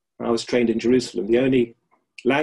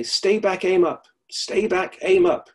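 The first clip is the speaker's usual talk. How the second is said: higher, louder, urging pupil upward; mock rallying call, higher and louder; dynamic command; 6 semitones higher, 4 dB louder than usual. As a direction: drive it like an energetic coach. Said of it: "This very dynamic man".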